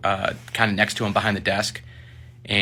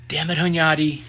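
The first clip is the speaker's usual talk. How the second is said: higher, venting in frustration; exasperated sergeant; 5 semitones higher than usual. Retold or imitated. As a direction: complain like a fed-up boss behind closed doors. Sergeant drops the act, exasperated.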